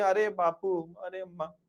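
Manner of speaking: mock lament, fading away softly; drawn-out pretend weeping; imitated tearful wailing. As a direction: imitate women crying as they cling. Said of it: "पकड़ के रोती हैं".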